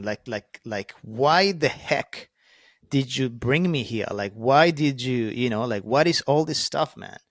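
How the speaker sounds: reliving an outburst at God, not at full force; retold yelling at God. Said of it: "yelling at God".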